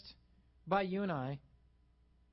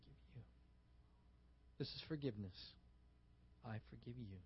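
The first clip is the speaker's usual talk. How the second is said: almost silent; 9 semitones lower, 18 dB quieter than usual. Shown as a demonstration. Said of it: "In sign language, it's this".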